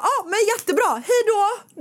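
high, bright fake-relieved farewell; mock cheerful goodbye. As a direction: chirp it like someone glad to escape. Imitating Max's relieved goodbye.

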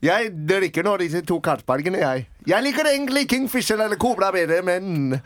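put-on Indian accent in Norwegian. Passenger drinking beers names preferred brands, Indian accent. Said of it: "Indisk norsk".

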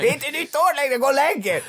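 amused mock telling-off; laughing. Real, not acted. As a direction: chuckle as you echo the friend. Repeating the yell, laughing.

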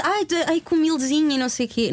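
mock false modesty. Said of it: "eu não estou a dizer isso".

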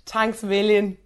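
broad Dublin slang delivery; real Dublin accent. Shown as a demonstration. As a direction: lay on the Dublin accent, playfully. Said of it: "You're gonna stay in that accent".

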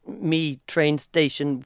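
very slow, halting foreigner's English; mock broken English. Foreigner asking the way in Ireland, slow broken English. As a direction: spell it out haltingly, word by word.

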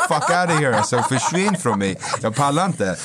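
high, exasperated comic dismissal; laughing mock rejection. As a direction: act fed up, laughing through it. Retold rejection of her food.

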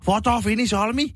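high, excited mock tourist voice; Japanese tourist impression. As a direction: gush like an amazed Japanese tourist. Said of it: "Sitten on silleen".

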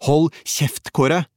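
narrated outburst, pitched well up; shouted. A narrator's reading. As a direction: cut him off with a sharp yell. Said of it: "mens jeg ropte".

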